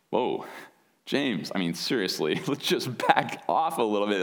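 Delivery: chuckling mock alarm; amused laugh. Real, not acted. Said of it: "I'm smiling as I say it".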